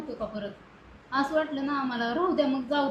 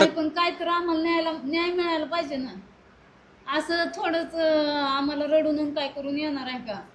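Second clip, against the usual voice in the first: pleading through tears, pitch a little raised; real tearful plea. Real, not acted. Parent begging the visitor for justice, tearful plea. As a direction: plead for justice while crying. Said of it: "रडू नका, रडून".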